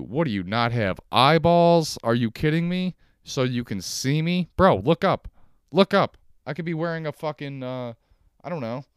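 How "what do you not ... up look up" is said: higher and louder, near a yell; incredulous shout. Acted. Ranting at an imagined boss about vests, incredulous shouting. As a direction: throw it at him like he's blind.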